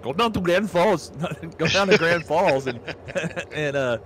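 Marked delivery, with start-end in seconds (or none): 0.0-2.7 higher sing-song North Dakotan imitation; North Dakota accent. Showing friend the North Dakota accent, higher lilting voice. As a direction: put on North Dakotan vowels. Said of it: "now I'm switching to".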